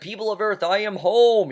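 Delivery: high, loud mock alien announcement. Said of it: "He was talking like an alien".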